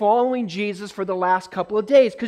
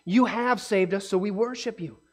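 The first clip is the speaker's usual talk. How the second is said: praise; 2 semitones lower than usual. Retold or imitated. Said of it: "an exclamation of praise".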